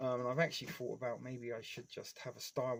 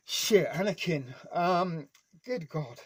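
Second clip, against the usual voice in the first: choked up; 4 semitones higher, 10 dB louder, slower than usual. Real, not acted. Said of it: "before I start crying about Darth Vader".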